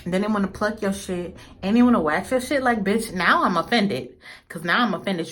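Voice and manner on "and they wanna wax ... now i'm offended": mock offended. Ranting at the threading salon.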